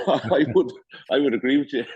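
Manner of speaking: chuckling through the words; laughing agreement. Real, not acted. Host laughing as he agrees with his guest. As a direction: laugh as you agree with him.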